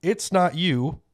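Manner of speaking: put-on lighthearted Italian Mario accent; punchline in Mario's voice. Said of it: "what did Mario say".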